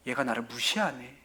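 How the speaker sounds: low, quiet grumble to oneself; understated, acted feeling of being snubbed; slighted aside. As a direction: voice a hurt inner thought, dropped low and soft. Voices the Spirit feeling ignored.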